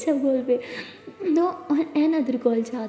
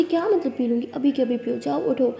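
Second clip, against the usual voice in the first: a firm mother's command; stern order. Acted. Mother insisting she drink now.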